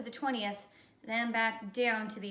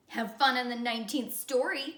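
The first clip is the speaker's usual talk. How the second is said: calling out; 4 dB louder than usual. Acted. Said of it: "called Jason".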